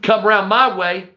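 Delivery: a hint of a swaggering thug; lightly voiced cocky tough guy; Gatlin voice. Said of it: "that's Gatlin".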